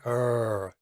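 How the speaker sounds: a held buzzing er; voiced er. Shown as a demonstration. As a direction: hum the er so the throat vibrates. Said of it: "and you say".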